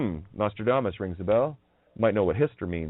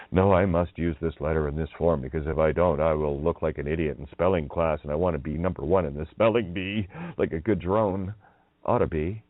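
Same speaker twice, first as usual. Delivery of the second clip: mock drone; 5 semitones lower than usual. Mocking the listener as a spelling-bee drone, lower voice. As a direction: sneer it like a good little drone reciting the rules.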